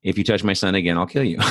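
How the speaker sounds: imitating an Arab accent at normal volume. Angry dad warns the boy who beat his son, in an Arab accent. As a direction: threaten in a put-on Arab accent. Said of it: "in his very Arab accent".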